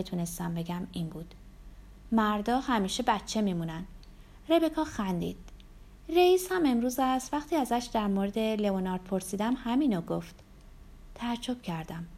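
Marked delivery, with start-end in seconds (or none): 2.1-3.8 understated, close to the usual voice; lightly voiced narrator's reply. Narrator voices her own reply. 6.1-10.3 a slightly lifted, chatty woman's line; lightly voiced Rebecca. Rebecca's dialogue in the story.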